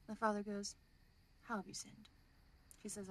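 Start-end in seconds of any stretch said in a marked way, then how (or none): 1.4-2.1 a soft whispered question from the confessional; whispered priest. Retold or imitated. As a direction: hush it like a priest behind the screen. Priest in told joke, confession.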